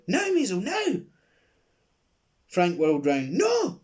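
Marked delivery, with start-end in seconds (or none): 0.0-1.0 high, loud urgent yell; yelled signal. Acted. Old lady signals the boy to escape, loud yell. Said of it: "took a deep breath and yelled". 3.3-3.8 very high, loud alarmed shout. Acted. Man sees the boy escaping, alarmed shout. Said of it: "he shouted".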